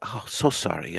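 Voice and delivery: imitating an apologetic room-service girl; polite clerk. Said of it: "she's so polite".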